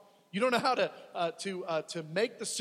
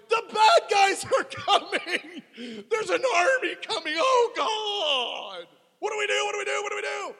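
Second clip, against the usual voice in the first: panicked shouting; 13 semitones higher, 10 dB louder than usual. Acted. Psalmists crying to God as army approaches, panicked shout. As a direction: cry out in alarm as the enemy comes.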